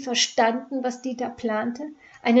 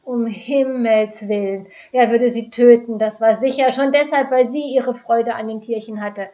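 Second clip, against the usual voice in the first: panicked; 8 dB louder than usual. Acted. Panicked inner thoughts.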